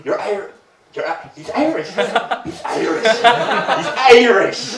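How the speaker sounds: high mock amazement, building to loud; hammed-up excitement. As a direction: exclaim it like thrilled strangers, ending in a loud high cry. Strangers excitedly announce he is Irish.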